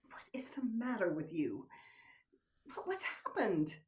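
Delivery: hushed whisper. Acted. Lover suddenly cold, alarmed.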